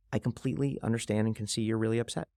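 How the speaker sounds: gentle validating tone; mean every word, calm and kind; sincere. Shown as a demonstration. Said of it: "in a sincere way".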